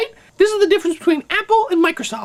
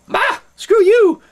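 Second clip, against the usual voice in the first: mock dismissive; 4 semitones higher, 4 dB louder, slower than usual. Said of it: "everyone will go".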